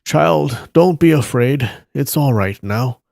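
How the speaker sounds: mildly acted kindly comfort; gentle reassurance. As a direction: soothe a frightened child. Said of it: "He turned and said gently".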